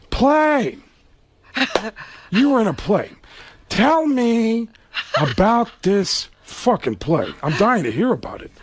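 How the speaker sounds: drawn-out mock interest, high swoops and long pauses; Al Pacino. Star mocking his rival about the play, sarcastic impression. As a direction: stretch it with theatrical sarcasm. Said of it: "And he goes".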